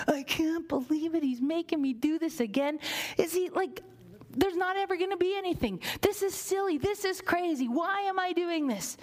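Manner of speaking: a servant grumbling under his breath, lightly hammed; mock grumbling servant. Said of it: "He's probably mumbling".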